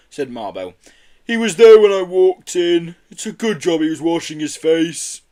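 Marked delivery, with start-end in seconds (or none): 1.2-5.2 Yeti voice. A narrator's reading.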